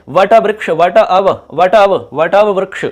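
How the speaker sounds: वट वृक्ष slowly, bringing out the अव sound; sound-spotting demonstration. Shown as a demonstration. Teacher points out the hidden sound, slow demonstration. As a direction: repeat वट अव in stretched pieces. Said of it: "अब की ध्वनि आ रही है".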